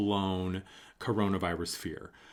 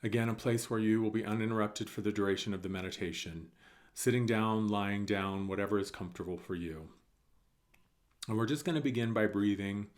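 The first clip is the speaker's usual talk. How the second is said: calm, unhurried meditation guide; guided meditation; 4 dB quieter than usual. Real, not acted. Guide settling listeners before breathing, calm meditation voice. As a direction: ease the listener in with long pauses.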